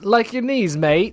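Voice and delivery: high, loud mock-English threat; English mobster accent. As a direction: play along as an English gangster. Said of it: "English Mafia".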